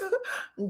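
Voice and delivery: short, high mock giggle; imitated laugh. Tisha looking at Destiny, giggling in imitation. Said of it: "Tisha looks at Destiny and goes".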